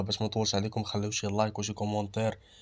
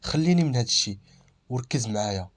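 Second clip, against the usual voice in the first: stern. Acted. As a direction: cut the topic off firmly. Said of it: "قلت ليه بصرامه". (بصرامة)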